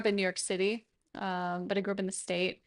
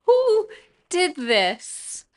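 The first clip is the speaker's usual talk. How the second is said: mock outraged yell; 8 semitones higher, 5 dB louder, much slower than usual. Repeats accusation louder.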